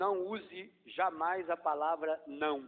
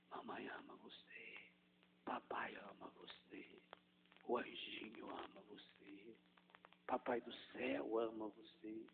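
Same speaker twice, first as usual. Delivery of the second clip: breath-only whisper, much softer and lower; 6 semitones lower, 12 dB quieter than usual. Shown as a demonstration. Mother whispering blessings to her drowsy child. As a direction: whisper love to a falling-asleep child. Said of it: "Falando baixinho, suave, suave".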